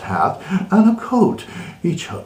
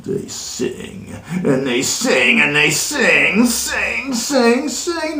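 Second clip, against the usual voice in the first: starts whispered, climbing much higher each sing; rising singsong; 9 semitones higher, slower than usual. A narrator's reading. Reader mocking the Whos' endless singing.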